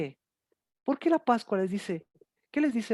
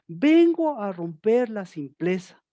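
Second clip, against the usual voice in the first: shouting God's words; 4 dB louder, slower than usual. Retold or imitated. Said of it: "les estaba gritando".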